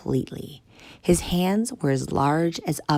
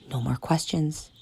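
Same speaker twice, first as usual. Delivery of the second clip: soft furtive whisper; 5 dB quieter than usual. Acted. Tank whispering to the kids, secret whisper. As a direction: keep it hushed.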